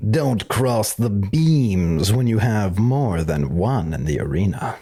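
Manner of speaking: slow dramatic movie line. Retold or imitated. Movie quote Ghostbusters.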